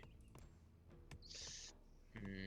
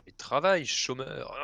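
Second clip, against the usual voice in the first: louder scolding bark; mock scolding shout; 3 semitones higher, 5 dB louder than usual. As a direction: shout at the lazy unit. Scolding unit in game.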